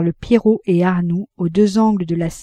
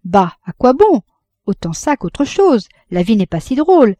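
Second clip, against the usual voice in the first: weary resignation; 4 semitones higher, 5 dB louder than usual. A narrator's reading. La Vatnaz malade répond à Frédéric, lasse et résignée. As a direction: let the words drag, she no longer cares. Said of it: "elle répondit lentement".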